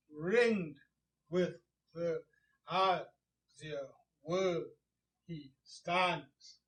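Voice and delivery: slow, separated beats through "Ringed with the azure world he stands"; metrical stress. Shown as a demonstration. Teacher showing the poet's rhythm, slow beats on "Ringed", "azure", "world", "stands". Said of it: "See, there's a rhythm there".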